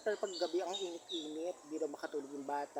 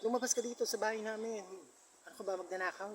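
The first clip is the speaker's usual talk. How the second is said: angry order; 6 semitones higher than usual. Retold or imitated. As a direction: throw the stranger out of the house. (galit na utos, mas mataas at malakas)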